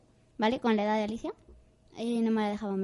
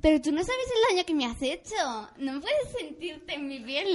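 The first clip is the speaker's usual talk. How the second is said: dramatic little sister; 3 semitones higher, slower than usual. Retold or imitated. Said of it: "y dice".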